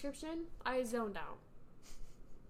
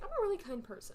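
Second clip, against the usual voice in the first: mock sweet voice; 9 semitones higher, 4 dB louder, faster than usual. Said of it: "She's like".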